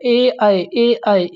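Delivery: teacher contrasting ए and आई for the students; demonstrating ए and आई. Shown as a demonstration. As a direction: say ए then आई, twice each. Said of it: "कहाँ पे जोर पड़ रहा है?".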